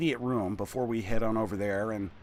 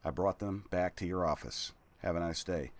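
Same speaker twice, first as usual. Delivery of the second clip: servant's letter voice. Acted. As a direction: read it as a nervous servant. Reads servant's letter aloud.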